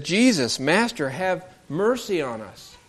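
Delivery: pleading call to Jesus, slowing at the end; lifting up their voice. Retold or imitated. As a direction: beg from a distance, drawing out the plea. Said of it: "They lifted up their voice and said".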